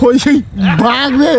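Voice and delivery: excited telling. Acted. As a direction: pitch it up as the tale peaks. Excited climax of tall tale. (উত্তেজিত গল্প বলা, গলা উঁচু)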